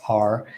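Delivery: R as a drawn-out AR; isolated American R; enunciated R. Shown as a demonstration. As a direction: sound the R clearly at the end. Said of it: "they'll enunciate that R".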